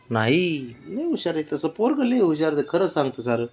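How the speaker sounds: soft, doting reassurance; tender praise. Real, not acted. Softly praising the child. (हळू आवाजात लाडाने कौतुक)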